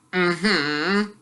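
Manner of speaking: short uninterested grunt; lazy mm-hmm of a man not listening; bored grunt. Acted. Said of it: "Uncle Vernon grunted again".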